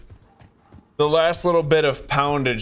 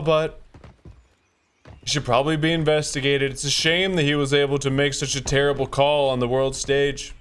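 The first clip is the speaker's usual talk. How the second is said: Trump impression. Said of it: "that's exactly how he talks".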